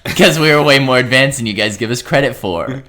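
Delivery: high, loud put-on creature voice; hammed-up proud green child; playing a green child bragging to humans; mock alien kid voice.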